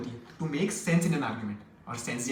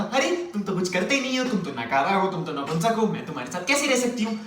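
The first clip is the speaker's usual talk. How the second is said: a hint of a nagging woman's complaint; lightly voiced girlfriend. Girlfriend scolding do-nothing man, mildly mocked nagging. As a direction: lightly mimic a fed-up girlfriend.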